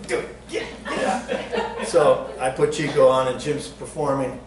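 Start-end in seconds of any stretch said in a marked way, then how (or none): 0.1-1.9 high hushed push to go; egging on under the breath; whispered urging. Retold or imitated. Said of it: "and Glenn goes".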